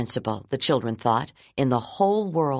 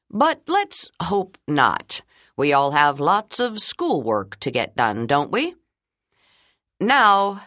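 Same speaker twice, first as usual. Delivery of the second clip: principal voice; 3 semitones higher, 3 dB louder, slower than usual. Acted. Principal lightly teasing.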